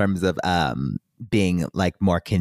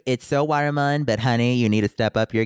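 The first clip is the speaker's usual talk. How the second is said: sassy. Pretend. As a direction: talk to it like a diva. Sassy address to Bluetooth.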